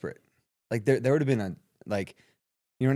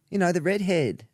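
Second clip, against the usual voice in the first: higher-pitched Australian woman, imitated; imitated Australian accent; 7 semitones higher than usual. Caller reminding him who she is, imitated Australian accent. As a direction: jog his memory in a mock Australian accent. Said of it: "Australian accent".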